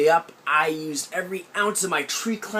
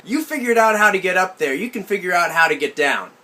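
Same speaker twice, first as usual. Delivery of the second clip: mock sympathy; 4 semitones higher, 7 dB louder than usual. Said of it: "the heartfelt sympathy in her voice".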